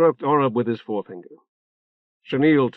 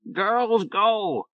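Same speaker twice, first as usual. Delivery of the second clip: bird voice; 9 semitones higher than usual. A narrator's reading. Talking bird repeats message.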